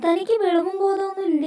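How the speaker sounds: angry. Acted. Angry reply to confession.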